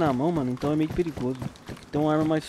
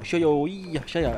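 mock Japanese gibberish; much slower than usual. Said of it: "Japonês não fala assim não".

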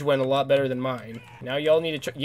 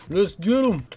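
loud, high battle cry; rallying shout; 7 semitones higher, 7 dB louder, slower than usual. Real, not acted. Gamer urging his army to charge, loud and high. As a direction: fire the troops up to charge.

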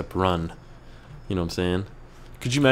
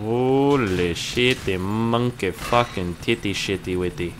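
tag; 2 semitones higher, slower than usual. Pretend. Silly exclamation while flying.

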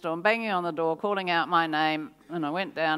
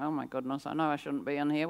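hushed inner panic; 3 semitones lower, 5 dB quieter, faster than usual. Retold or imitated. Inner panic in seance house.

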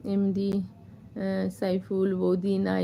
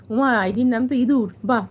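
amused surprise; 4 semitones higher, 7 dB louder than usual. Real, not acted. Reads funny viewer name.

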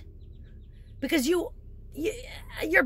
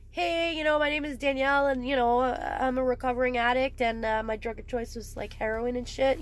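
mock meeting intro. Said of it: "go into a room and be like".

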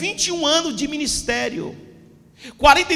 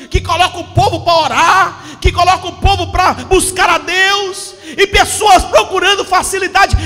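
preaching at full force; 3 semitones higher, 6 dB louder than usual. Acted. Pastor warning the church about Satan, preaching hard. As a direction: hammer each phrase home to the congregation.

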